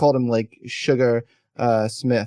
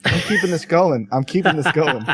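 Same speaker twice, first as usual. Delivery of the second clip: amused insistence; 5 semitones higher than usual. Real, not acted. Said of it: "I've had to pee emergency level".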